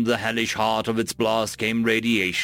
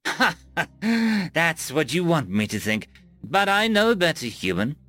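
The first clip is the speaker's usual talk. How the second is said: higher, scornful voice with a mock laugh; taunting alien commander, a touch higher; mocking alien abbot; 4 semitones higher than usual. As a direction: gloat over the weak prey. Abbot mocks the human as prey.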